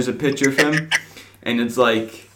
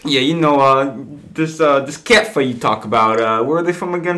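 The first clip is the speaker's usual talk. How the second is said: put-on Philly accent; 3 semitones higher than usual. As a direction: mouth off like a Philly fan. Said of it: "Is this supposed to be my Philly accent time?".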